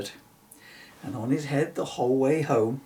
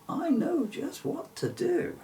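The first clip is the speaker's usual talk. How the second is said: knowing mother. Acted. Mother's kind plan.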